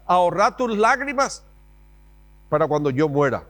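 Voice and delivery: hammed-up stern mom; dramatic mom. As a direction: snap back like a martyred mother. Mom's retort repeated.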